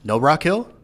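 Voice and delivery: hyped challenge; loud gung-ho soldier. Retold or imitated. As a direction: bark it like a drill sergeant. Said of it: "then they're like".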